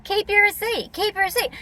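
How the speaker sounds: high, mocking sing-song repeat; sarcastic. Mimicking staff who say it too many times, sarcastic. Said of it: "She's being sarcastic all the time".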